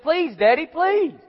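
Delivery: high, whiny imitation of begging Daddy; mock tearful pleading. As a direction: plead like a crying son, pitch climbing. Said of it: "he's all crying to his daddy".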